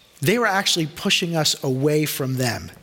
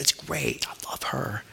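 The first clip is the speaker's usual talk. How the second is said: breathy whispered aside, much softer; 3 semitones lower, 9 dB quieter, slower than usual. Retold or imitated. Telling Phil about Debbie in a hushed whisper. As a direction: whisper it like a secret.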